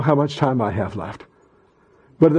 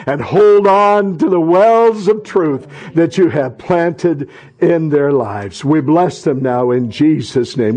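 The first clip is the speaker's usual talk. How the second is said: prayer; 3 semitones higher than usual. Acted. Closing prayer.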